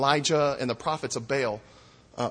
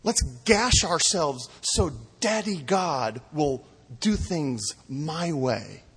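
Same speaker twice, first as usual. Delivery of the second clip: a lightly voiced pious self-gasher, slow; a hint of a whiny child, drawn out; mocking worshipper voice; slower than usual. Preacher mocking people who want God their way, lightly slow.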